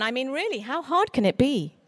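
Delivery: lightly voiced casual boast; tossing it off as if it's nothing; breezy confidence. Stranger at a book event, in a breezy boast. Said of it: "cheerfully announcing".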